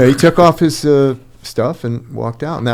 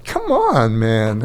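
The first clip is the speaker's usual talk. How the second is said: retold exasperation; much slower than usual. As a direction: protest in disbelief, pitched way up at first. Retold protest at bought pilot.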